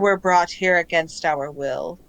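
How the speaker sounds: measured voice of many minds; composed otherworldly speaker; calm collective voice. Acted. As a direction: state it evenly as a captive collective. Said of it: "the tone is very calm".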